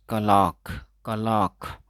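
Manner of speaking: कलाक said with no r, short falling; कलाक, r dropped, clear vowels; silent r demo. Shown as a demonstration. Teacher demonstrating कलाक with the r kept silent. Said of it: "तो इसमें आर को silent रखेंगे".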